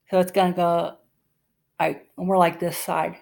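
talking with fingertip on teeth; finger in mouth. Real, not acted. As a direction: mouth held open around finger. Seen 1: Fingertip held inside open mouth on teeth throughout labelled words.

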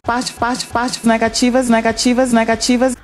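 parte and negativas said with the Brazilian soft T before E. Shown as a demonstration. Learner hears Brazilian parte and negativas pronounced. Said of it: "Listen to how Adriana Lima says these words".

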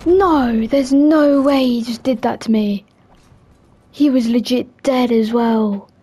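loud, indignant outburst; outraged disbelief. Real, not acted. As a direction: shout it in disbelief. Killed unfairly in game.

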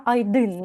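"айдин" with the accent on the final и; stress on last vowel. Shown as a demonstration. Teacher showing the second stress, "айдин" stressed on и. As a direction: lean on the и in "айдин". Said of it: "на и".

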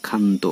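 ক্ষান্ত begun with a plain kh; initial kh sound. Shown as a demonstration. Teacher shows students the rule, ক্ষান্ত with a kh sound. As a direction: say ক্ষান্ত as "khanto". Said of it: "ক্ষয়ের মতো উচ্চারিত হবে".

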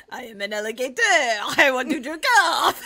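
imitating the alligator voice. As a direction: ham up the friend's alligator line. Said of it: "in the corner going".

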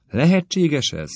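high, slow, amazed exclamation; astonished cry. A narrator's reading. Elizabeth cries out after reading uncle's letter, amazed and slow. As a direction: let the disbelief ring out. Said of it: "kiáltott fel Elizabeth".

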